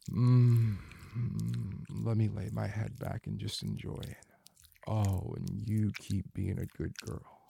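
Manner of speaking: breathy, moaning intimate voice throughout; sensual erotic roleplay. Acted. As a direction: murmur it like a lover lost in pleasure.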